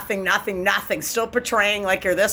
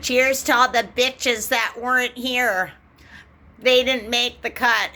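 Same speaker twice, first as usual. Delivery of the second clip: mock toast; 4 semitones higher than usual.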